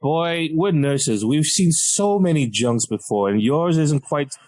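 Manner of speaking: slow, deliberate put-down; drawn-out, patronizing dismissal; unimpressed nurses. Retold or imitated. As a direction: imitate nurses who have seen it all.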